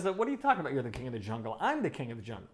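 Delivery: storyteller's affronted lion; indignant lion. Acted. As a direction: challenge the upstart in disbelief. Lion disputes bunny's claim to be king.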